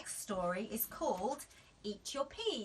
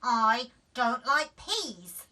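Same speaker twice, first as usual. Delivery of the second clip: slow, loud flat refusal; drawn out no; stubborn child; 2 semitones higher, 10 dB louder, slower than usual. A narrator's reading. Daisy refusing flatly, slowly. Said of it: "said Daisy".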